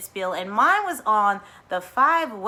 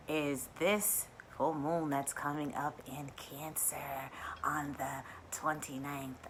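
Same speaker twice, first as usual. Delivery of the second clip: hushed mystery; 6 semitones lower, 13 dB quieter, slower than usual. Real, not acted. Mysterious astrology tease.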